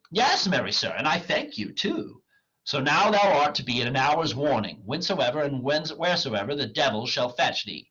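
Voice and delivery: theatrical comic dialogue; dramatic play reading. Acted. Wagner mocks the poor clown, declaimed. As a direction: declaim the old lines with lively swings.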